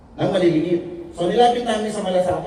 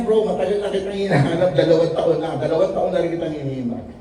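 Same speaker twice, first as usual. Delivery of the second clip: laughing retold quote. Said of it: "Sabi niya".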